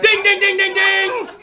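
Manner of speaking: loud, high ding-ding like a quiz buzzer; game-show ding. Pretend. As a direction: ring out the winner's bell, laughing. Game-show bell for right guess.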